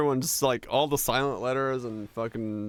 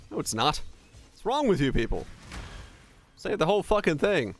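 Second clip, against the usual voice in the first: ordinary talk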